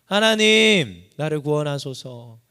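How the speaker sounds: loud pleading cry of God's name, then the plea drops back. Acted. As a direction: call up to heaven in desperation. Preacher voices David's cry to God.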